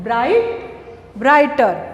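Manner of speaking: ब्राइट, ब्राइटर with no sound for GH; silent GH. Shown as a demonstration. Teacher showing silent letters to pupils, GH unsounded in ब्राइट, ब्राइटर. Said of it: "ये जीएच होता है".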